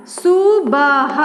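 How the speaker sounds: सुबह drawn out as su, ba, ha; a slow, sounded-out सुबह for a beginner; syllable by syllable. Shown as a demonstration. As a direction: stretch each syllable of सुबह slowly. Sounding out, then reading joined.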